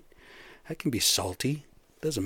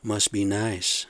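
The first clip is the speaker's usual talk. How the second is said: sarcastic; slower than usual. Retold or imitated. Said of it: "And he's all like".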